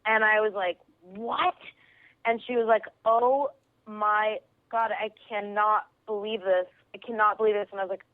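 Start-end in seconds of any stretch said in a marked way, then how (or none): 1.0-1.5 disbelieving "what?" on a rising pitch; mock-stunned question, voice sweeping up; retold shock. 3.0-7.7 retold astonishment. Retold woman stunned by the coincidence.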